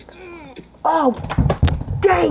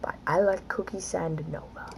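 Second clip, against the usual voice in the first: whisper; 5 semitones lower, 9 dB quieter than usual. Real, not acted. Aside about rating.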